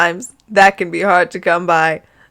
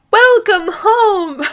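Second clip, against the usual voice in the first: put-on much higher, slow, sing-song little girl voice; sugary child greeting; 12 semitones higher, 4 dB louder, much slower than usual. Daughter greeting her father, high and sugary. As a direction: gush it like a sweet little girl.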